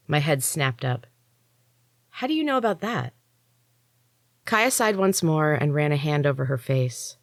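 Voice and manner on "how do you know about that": higher, quick startled question. A narrator's reading. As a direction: caught off guard. Narrator startled.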